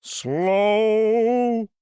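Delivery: indignant echo. Acted. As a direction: fling the word back, affronted. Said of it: "the ghost repeated".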